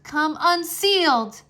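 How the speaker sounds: slow, loud spell finish; shouted last word. Acted. Wolfgang breaking his father's shield, shouted finish. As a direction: punch out the final word. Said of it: "Wolfgang shouted the last word".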